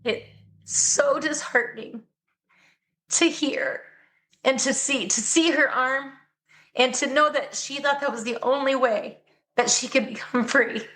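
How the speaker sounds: holding back tears while telling it; choked up. Real, not acted. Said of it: "I'm sorry, I'm getting emotional".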